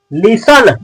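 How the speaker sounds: लिसन drawn out slowly with an -un ending; slow लिसन, second vowel as a plain "uh"; wrong "listen", short ending. Shown as a demonstration. Teacher rejecting a common reading, slow लिसन ending in -un. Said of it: "लिसन नहीं".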